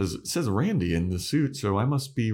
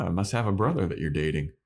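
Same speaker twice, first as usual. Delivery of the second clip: quick, mildly sheepish aside; faster than usual. Acted. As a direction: rush it out a little sheepishly. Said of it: "sheepish in this".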